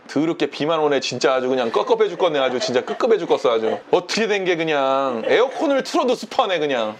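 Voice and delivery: low, grumbling complainer act; 가짜 믿음의 불평. Retold or imitated. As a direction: grumble low about everything, in imitation. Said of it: "가짜 믿음은 이렇게 말해". (낮게 투덜거리는 흉내)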